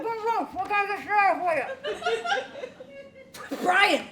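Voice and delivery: calls him out, startled; shouting. Acted. Confronting ex-husband Brian.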